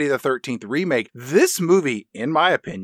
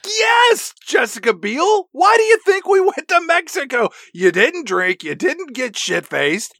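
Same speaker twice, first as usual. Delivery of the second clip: put-on sarcastic boyfriend; 8 semitones higher than usual. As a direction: sneer back at her like a smug dude. Voicing Kemper's mocking retort.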